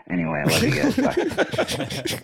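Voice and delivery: bright, high sign-off; excited goodbye. Real, not acted. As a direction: sing out the goodbye. Caller signing off loudly.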